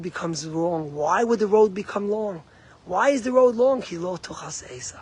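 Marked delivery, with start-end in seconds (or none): 3.8-5.0 soft unvoiced whisper; hushed quotation; whispered verse. Real, not acted. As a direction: whisper the Hebrew line. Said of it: "quoted verse whispered".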